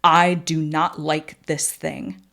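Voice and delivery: mock-ominous deep voice, dragged out slowly. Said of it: "I said in a really deep voice".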